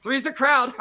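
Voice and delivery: high-pitched mock quote; movie line. Fan butting in during the photo, high mocking quote. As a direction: toss it out high and teasing. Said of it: "'cause I don't wanna move it".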